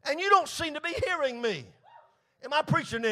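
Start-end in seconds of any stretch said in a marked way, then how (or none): 0.0-1.6 Habakkuk/character. Acted. Prophet crying to a God who seems deaf, lamenting. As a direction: plead upward, stretching the words. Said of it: "we feel as Habakkuk did".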